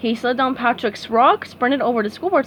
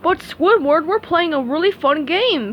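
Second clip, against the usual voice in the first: Patrick voice; 6 semitones higher, 3 dB louder than usual. A narrator's reading. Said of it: "Patrick explained".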